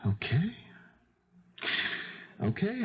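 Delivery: a hurt, breathy whisper of giving up; whispered okay. Acted. Son rejected by his mother, whispering. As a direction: let it slip out as a whisper.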